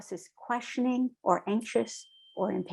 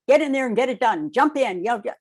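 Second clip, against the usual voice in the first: louder, faster, higher mock commando bark; gung-ho soldier; 3 semitones higher, 5 dB louder, faster than usual. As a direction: imitate a pumped-up soldier rushing in. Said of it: "Special Forces would be like".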